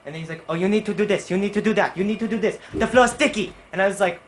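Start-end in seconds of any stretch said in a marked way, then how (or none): 0.5-3.5 raised, nagging imitation of a boss; mock irritated boss giving orders; mad boss. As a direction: rattle off complaints, pitched up and building louder. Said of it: "he seems always mad".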